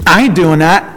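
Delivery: indignant servant. Retold or imitated. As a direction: servant pushing back at Joab, high and defensive. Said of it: "the servant that found him".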